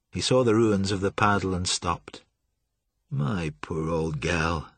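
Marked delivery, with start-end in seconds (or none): 3.1-4.7 slow, soft, grieving murmur; crestfallen murmur. A narrator's reading. Old man grieving over his ruined paddle wheel, softly murmured. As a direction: mourn the wrecked boat softly. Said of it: "he murmured in a crestfallen tone".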